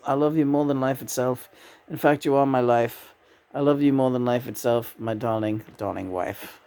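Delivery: a lightly voiced doting husband, dropping low at the end; voicing John. Husband John tells his wife he loves her, low and tender. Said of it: "Thanks, John".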